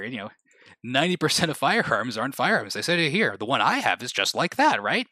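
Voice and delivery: imitating a smug explainer, singsong emphasis; mock argument. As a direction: swoop the pitch on key words, mock-lawyerly. Mimics someone arguing guns aren't firearms.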